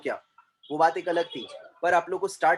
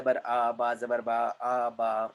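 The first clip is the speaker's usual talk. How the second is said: low, even schoolroom spelling recitation; 6 semitones lower, much slower than usual. Shown as a demonstration. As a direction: recite letters like a childhood spelling drill. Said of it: "हिज्जे करना".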